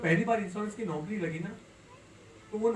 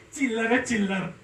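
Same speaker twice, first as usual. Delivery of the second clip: dismissive leader; 4 semitones higher, 6 dB louder than usual. Retold or imitated. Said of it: "बड़े style से".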